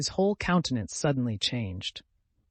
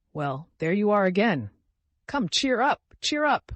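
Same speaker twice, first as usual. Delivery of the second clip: coaxing, climbing higher and louder on cheer up; persuasive; 8 semitones higher, 6 dB louder than usual. A narrator's reading. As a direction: coax him out of his tears. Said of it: "Grushenka said to him persuasively".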